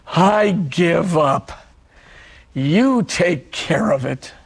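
slow, yielding prayer; slow prayer of giving up. Retold or imitated. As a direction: let go and hand it over, slowly. Quoting his prayer of surrender.

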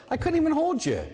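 high, plaintive "I couldn't even hold you"; a hurt father who was left too soon; disappointed God. Retold or imitated.

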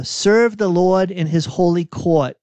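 put-on reading in a Boston accent, r dropped; psalm read with Boston vowels; Boston accent on court and Lord. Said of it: "It was your accent".

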